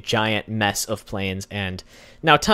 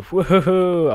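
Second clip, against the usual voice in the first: cheer; 8 semitones higher, 7 dB louder than usual. Real, not acted. Plane meeting photo succeeds.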